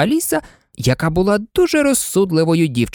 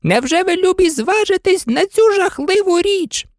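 pleading oysters. Acted.

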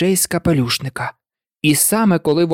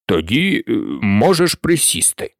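lower, curt dismissal; sending the witness away; low, offhand order; low bored king; 4 semitones lower than usual. A narrator's reading. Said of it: "відповів король".

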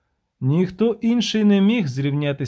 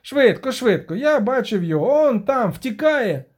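urgent shout; 7 semitones higher than usual. Acted. Denti urging the chase.

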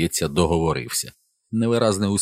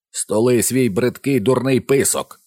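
loud, slow angry bark; officer rebuking the boy; 7 semitones higher, 5 dB louder, slower than usual. A narrator's reading. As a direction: slam each word down. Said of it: "кинув Реймер".

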